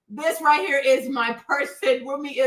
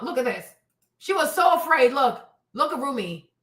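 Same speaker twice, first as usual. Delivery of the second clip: ordinary talk, nothing marked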